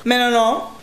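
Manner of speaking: Anguillian dialect phrase. Retold or imitated. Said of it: "If you say words like".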